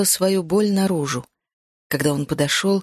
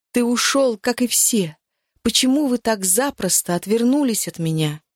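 upset accusation; 4 semitones higher than usual. Acted. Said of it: "Я не могла успокоиться".

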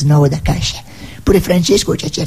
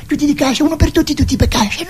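higher, silly chant of friends; mock friends' chatter; 9 semitones higher than usual. Comedian voicing friends chanting about Cascia. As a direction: play the friends as a comic chorus. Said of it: "non è che parliamo solo del fatto".

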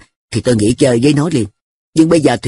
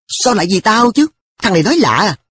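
puzzled, higher-pitched protest; exclaiming in surprise; 8 semitones higher than usual. A narrator's reading. Narrator to An studying for his sake, exclaiming. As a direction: question it in mild astonishment. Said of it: "tôi kêu lên".

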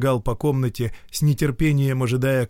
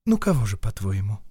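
softly. Acted. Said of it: "мягко произнесла Вольская".

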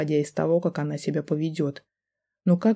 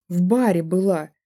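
louder woman's cry, breaking into tears; tearful shout; 2 semitones higher, 4 dB louder than usual. A narrator's reading. Wife shouts at husband, choking on tears. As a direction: blurt it out crying. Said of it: "закричала она, заходясь в слезах".

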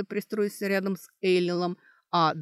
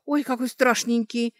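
higher, louder pitying coo; 6 semitones higher, 5 dB louder than usual. A narrator's reading. Girl looking at a charcoal drawing, pitying. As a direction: pity the poor scary thing, pitched up. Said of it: "с жалостью сказала Кэтрия".

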